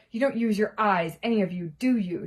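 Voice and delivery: a touch of bad temper; snapped. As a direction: scold them impatiently. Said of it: "she snapped".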